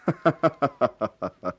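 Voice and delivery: hearty laugh. Acted. Friend laughs at the news.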